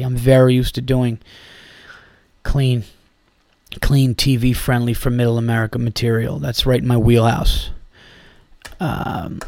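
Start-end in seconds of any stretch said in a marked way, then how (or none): 0.0-7.7 dry sarcasm, quieter; sarcastic. Real, not acted. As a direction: say it with a sarcastic eye-roll. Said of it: "I'm sure you could sense the sarcasm there".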